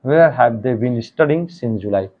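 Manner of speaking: very slow, each word spaced out; slow dictation. Shown as a demonstration. Teacher reads the translation for students to write, very slow.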